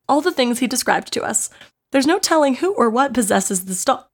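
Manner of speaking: hiccups breaking the reading. Real, not acted. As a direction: push through the hiccups. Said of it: "the hiccups are killing me".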